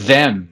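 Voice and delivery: "them" with the tongue between the teeth; voiced th in "them", tongue touching the teeth; th pronunciation demo. Shown as a demonstration. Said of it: "T H, língua nos dentes".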